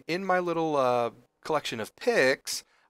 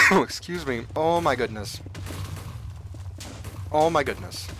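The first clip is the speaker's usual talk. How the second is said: breathless laughing oh my goodness; laughing so hard he can barely breathe; laughing fit; 3 semitones higher, 4 dB louder than usual. Real, not acted. Gamer laughing at huge diamond haul, breathless and wheezing. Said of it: "I can't even breathe".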